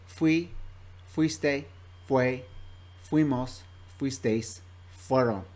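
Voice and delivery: Spanish "Fui, fuiste, fue, fuimos, fuisteis, fueron" said one form at a time; teacher's pronunciation drill of "Fui, fuiste, fue, fuimos, fuisteis, fueron", word by word; pronunciation practice. Shown as a demonstration. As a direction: model each form from "Fui" to "fueron" separately, pausing between them. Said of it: "practice the pronunciation of this verb".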